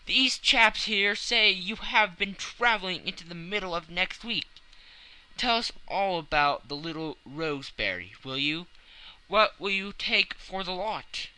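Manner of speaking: high, loud, jovial mocking voice; a laughing editor ribbing his friend; hilarious editor. A narrator's reading. Editor mocking the traveler's tale, high and jolly. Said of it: "said the editor, hilarious".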